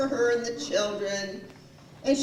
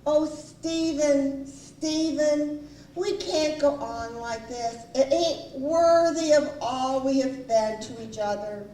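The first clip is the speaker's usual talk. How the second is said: imitated wife's solemn plea, slow on the name; funny low voice; 4 semitones higher than usual. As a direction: play a melodramatic wife's earnest appeal. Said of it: "in this funny low voice".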